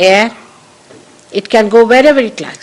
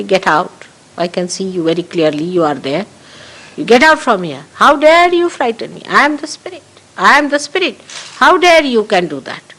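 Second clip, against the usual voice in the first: fearless command. Shown as a demonstration. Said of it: "you should just say".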